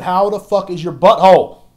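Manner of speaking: loud high yelled question; retold yell. Telling how he yelled at her, loud mock shout. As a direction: bellow it across the room. Yelling a crude greeting at someone.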